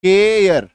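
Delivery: केयर drawn out as "kay-er"; pronunciation demo. Shown as a demonstration. Teacher showing students the word, केयर said drawn out. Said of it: "अभी इसका उच्चारण देखो क्या है".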